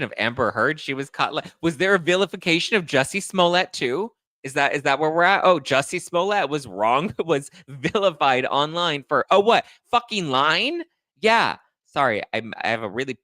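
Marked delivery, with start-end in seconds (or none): 1.6-11.6 high, mock-questioning indignation; infuriated sarcasm. Real, not acted. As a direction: climb into scornful disbelief. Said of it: "it's so infuriating to me".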